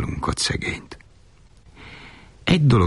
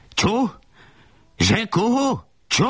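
very high, incredulous mother's squawk; choking outrage; slower than usual. Acted. Furious mother questioning her son's marriage, choking outrage. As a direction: choke out each question, pitched far up. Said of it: "ismételgette a fulladástól elébb hörögve".

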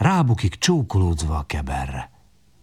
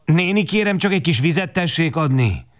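put-on high pleading child's voice; humble plea; 9 semitones higher than usual. A narrator's reading. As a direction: ask sweetly for water. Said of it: "szólok be alázatosan". (alázatosan kérlelő, magas gyerekhang)

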